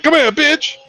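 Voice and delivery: high-pitched imitation of a bully; mock angry order. Acts movie character's rough order.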